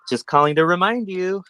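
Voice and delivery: quoting in a high put-on voice; mock high voice. Mimicking a caller in a high voice.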